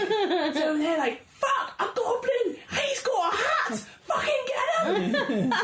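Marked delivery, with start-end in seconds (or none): 1.4-5.5 high yelling guards. Retold or imitated. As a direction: shout it like panicked guards.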